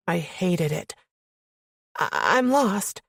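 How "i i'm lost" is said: high, stammering schoolgirl squeak; terrified squeak. A narrator's reading. Lost woman answering armed man, terrified squeak. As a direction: squeak it out, stumbling on the first word. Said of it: "I squeaked out like a terrified schoolgirl".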